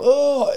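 high drawn-out "oh"; mock rider's whoop. Imitating a rider weaving across the road, high whoop. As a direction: let out a high swerving cry.

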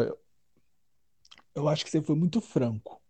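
ordinary delivery

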